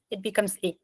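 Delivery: E said as a tight, bright French é; accented French E. Shown as a demonstration. Tutor shows the accented E to a student, tight é. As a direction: smile the E into é. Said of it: "add an accent on it".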